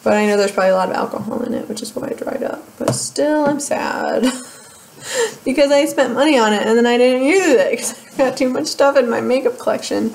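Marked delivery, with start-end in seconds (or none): 2.8-10.1 whining, pitched up; whiny. Acted. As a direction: whine about the wasted money. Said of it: "Did I sound like a whine".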